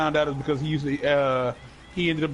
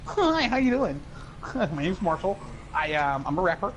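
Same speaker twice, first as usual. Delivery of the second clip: lightly voiced stereotypical white boy; mock-polite square white-boy rapper; a famous rapper; 3 semitones higher than usual. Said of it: "talked like a stereotypical white boy".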